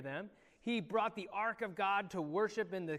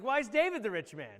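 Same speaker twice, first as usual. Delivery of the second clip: mock-baffled child, higher and louder; imitated confusion; 4 semitones higher, 6 dB louder than usual. Teacher voices confused pupil questioning the story, mock bafflement. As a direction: ask it as a puzzled pupil. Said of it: "Sammy's confused right now".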